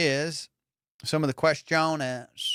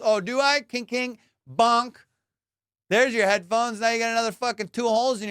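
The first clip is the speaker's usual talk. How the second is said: lightly voiced menacing guy; hint of a threatening stranger; mock homeowner; 4 semitones higher than usual. Acting out the angry homeowner.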